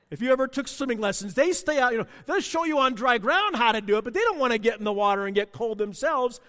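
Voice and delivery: ordinary delivery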